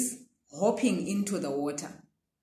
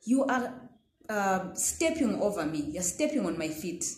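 annoyed reaction. Acted. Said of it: "natural reaction would be".

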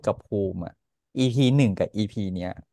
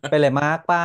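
lakorn villainess; 3 semitones higher, 5 dB louder than usual. Retold or imitated. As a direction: ask it like a soap opera villain. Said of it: "นั้นช่องเสียงนางร้ายแบบเธอค่ะ".

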